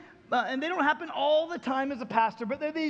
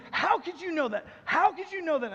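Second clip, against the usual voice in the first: higher, insistent retold question; astonished demand; 4 semitones higher than usual. Man to pastor who guessed the bullet, astonished. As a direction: imitate a man amazed, pressing for an answer.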